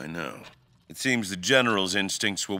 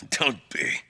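drawn-out, lilting brush-off, higher; wry dismissal; 9 semitones higher, slower than usual. Acted. King brushing off the doctor's flattery, slow and wry. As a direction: wave the flattery away slowly.

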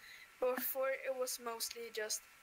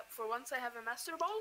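voice cracking; faster than usual. Real, not acted. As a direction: voice breaking mid-sentence. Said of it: "Why did my voice break there?".

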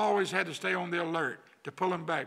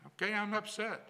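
naming anger; 5 semitones higher than usual. Shown as a demonstration. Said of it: "name it".

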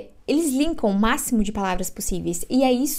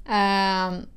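ordinary talk, nothing marked

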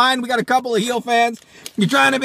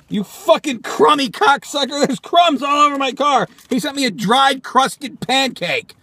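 indignant tirade; 5 semitones higher than usual. Acted. Berates sender of crumbly pancake.

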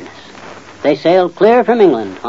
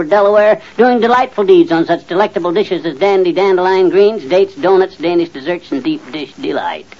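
grand boastful patter; 3 semitones higher than usual. Acted. Husband boasting to wife of his fame, grand tongue-twisting patter. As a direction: reel off your titles like a showman, winding down. Alliterative boast after wife's groan.

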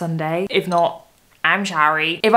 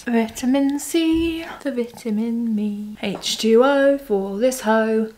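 silly singsong; 3 semitones higher, slower than usual. Pretend. Silly rhymes, delirious.

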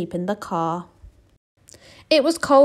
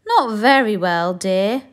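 yawning; 2 semitones higher, 7 dB louder than usual. Acted. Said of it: "yawned Mister Bear".

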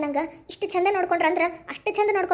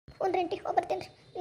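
soft, sorrowful leave-taking; tearful farewell; 7 dB quieter than usual. Acted. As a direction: answer quietly, close to tears. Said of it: "ಹಂಗ್ ಅಳಬಾರ್ದ್ವಾ". (ದುಃಖದಿಂದ ಮೆಲ್ಲಗೆ)

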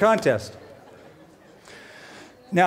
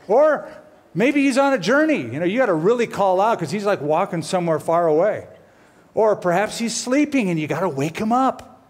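mocking; 3 semitones higher than usual. Continuing the mockery.

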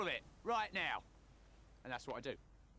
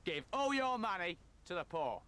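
Michael Caine voice; 3 semitones higher, 3 dB louder than usual. Retold or imitated. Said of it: "speaking in a Michael Caine type voice".

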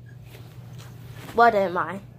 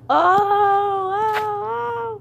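higher, loud taunting oh; mocking ooh; 7 semitones higher, 4 dB louder than usual. Kid taunting a toy that was just insulted, jeering. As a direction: jeer like a playground crowd.

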